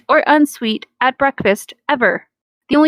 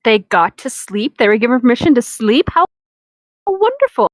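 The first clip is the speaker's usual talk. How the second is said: sarcastic disbelief; faster than usual. Real, not acted. Mocking the fic's wording.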